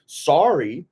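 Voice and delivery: lightly voiced Jeff, a grudging sorry; a hint of an older brother shrugging it off; imitating Jeff. Older brother to sister, lightly voiced grudging sorry. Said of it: "This is my impersonation of Jeff".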